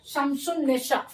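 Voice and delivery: slow शमसुन निशा with a long न and no l sound; slow pronunciation demo. Shown as a demonstration. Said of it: "शीन के बाद direct नून का तलफ़ुज़ हो रहा है". (धीरे से शमसुन निशा, लाम नहीं)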